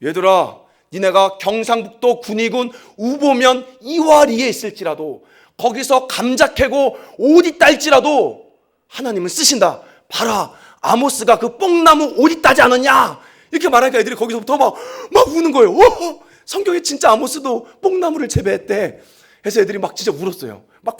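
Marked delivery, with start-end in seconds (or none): 0.0-13.2 raised, higher preaching to the youth group; rally the kids, it's God who uses you; retold sermon to kids. Pastor preaching to rural kids, raised and rousing. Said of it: "이렇게 설교했습니다". 15.8-19.0 put-on amazed kids.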